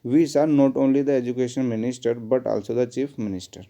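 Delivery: corrected sentence read slowly and evenly; slow dictation. Shown as a demonstration. Teacher dictating the corrected sentence, slowly. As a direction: spell it out clearly, word by word. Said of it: "इस not only को यहाँ से हटा के कहाँ पे लिख लीजिए".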